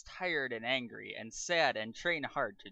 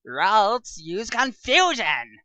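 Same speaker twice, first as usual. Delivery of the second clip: higher, louder battle command; commanding shout; 8 semitones higher, 14 dB louder, much slower than usual. Acted. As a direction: bark the move name at your Pokemon. Trainer commands attack.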